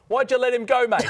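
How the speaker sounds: high, loud, overdone Aussie cop; mock a badly faked Australian cop; bad Australian accent. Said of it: "I talk like an Australian. The cop in this film's like".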